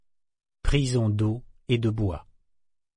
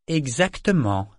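cold voice; 3 semitones higher than usual. Acted. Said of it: "confirma-t-elle d'une voix froide".

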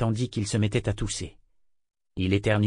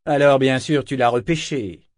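curt and dry, a bit louder; dry remark; 3 semitones higher, 5 dB louder than usual. A narrator's reading. Kenit drily needling Eta over the rescued man, curt. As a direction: clip it with dry sarcasm. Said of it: "fit-il observer sèchement".

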